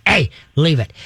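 short, to-the-point correction; short command. Shown as a demonstration. Trainer tells pup to drop it, short and to the point. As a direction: say it as a curt command. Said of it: "just short and to the point".

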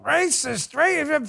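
high-pitched mock outrage; outraged liberals. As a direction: sputter like scandalized critics, hammed up. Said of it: "They'd be like".

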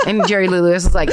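thump of a hand on the mic; mic bump. Real, not acted. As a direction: microphone knocked mid-line. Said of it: "I keep hitting the mic".

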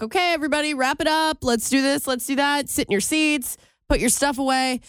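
lightly voiced teacher wrapping up class. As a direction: imitate a teacher giving orders. Teacher giving instructions, voiced.

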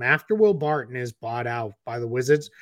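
Wizards said in a Boston accent, no r; Boston accent slipping out on Wizards. Real, not acted. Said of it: "my Boston accent came out there".

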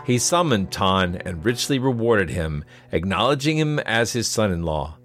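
measured storyteller's read over music; story narration. A narrator's reading.

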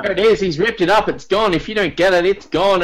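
excited sports commentator call. Pretend. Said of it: "why am I talking like a commentator voice".

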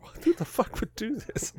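high, slowed, hammed-up disbelief; mock baffled outrage. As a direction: act out the friends' confusion. Friends' baffled reaction quoted.

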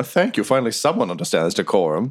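a courteous creature introducing itself; polite badger.

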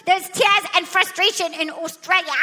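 amateur attempt at an Australian accent; put-on Australian accent. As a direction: show someone the line in Aussie. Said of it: "Australian accent".

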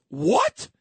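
a sudden loud outraged what; mild retold outburst; really loud. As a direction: blurt it out loud across the ballroom. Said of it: "Like, really loud".

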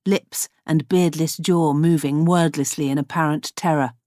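ordinary delivery

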